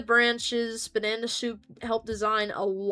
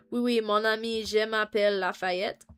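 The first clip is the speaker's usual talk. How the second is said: mock French accent. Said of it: "French Lafayette character voice".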